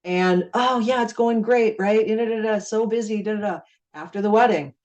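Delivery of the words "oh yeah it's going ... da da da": mock bubbly chatter. Imitating prospect's busy chatter.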